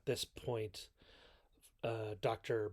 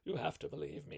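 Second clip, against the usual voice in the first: mock panic; 4 semitones higher than usual. Frank begging the doctor to believe him, hammed-up panic. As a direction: play up Frank's panicked confession. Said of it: "he's all like".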